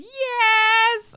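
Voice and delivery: high loud eager yes; excited yes. Retold or imitated. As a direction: blurt out the yes like a thrilled kid. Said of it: "In that voice".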